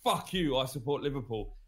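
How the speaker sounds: blunt and defiant, no apologies. Shown as a demonstration. Friend urging him to own his club, defiant. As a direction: spit it out like you mean it. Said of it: "Just come on here and go".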